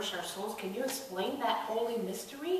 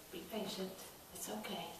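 much softer, gentle and calm; gentle reassurance; 13 dB quieter than usual. Acted. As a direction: soothe them softly. Jesus reassuring, soft.

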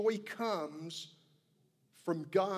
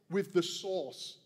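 Boston accent. Real, not acted. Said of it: "I have this Boston accent just saying".

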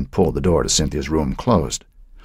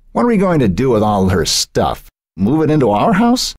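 a note of worry, rising to a high question; teen son fretting over grandmother's stuff, anxious; 7 semitones higher, 3 dB louder than usual. A narrator's reading. Son worried about moving grandma's things, anxious. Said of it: "a note of anxiety in his voice".

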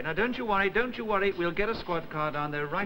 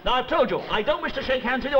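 angry telling-off; 6 semitones higher, faster than usual. Acted. Sergeant angrily refuses handshake.

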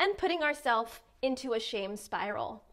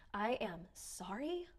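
deflated apology; 2 semitones lower, 10 dB quieter than usual. Shown as a demonstration. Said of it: "That's a huge blow".

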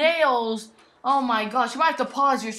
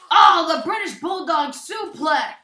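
excited call; 2 semitones higher, 6 dB louder than usual. Real, not acted. Calling a move.

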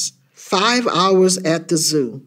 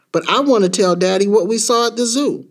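put-on higher-pitched kid's protest; pleading child; 5 semitones higher than usual. Child wanting to tell Daddy about the zoo, pleading. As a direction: plead like a child who won't accept it.

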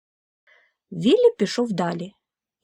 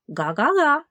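a higher, bright honk; higher goose answer; goose reply; 6 semitones higher, 3 dB louder than usual. Acted. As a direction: honk back eagerly. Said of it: "відповів Віллі".

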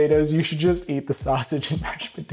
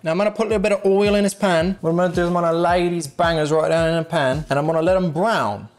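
put-on British accent; casual fake British cook. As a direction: talk through the frying in mock British. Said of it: "use my British accent".

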